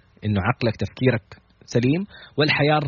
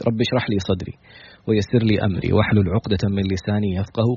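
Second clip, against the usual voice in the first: prayer; 2 semitones lower than usual. Acted. Opening supplication before the talk.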